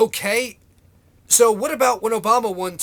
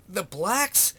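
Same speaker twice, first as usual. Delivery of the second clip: incredulous; 3 dB quieter than usual. Real, not acted. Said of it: "That's how he talks".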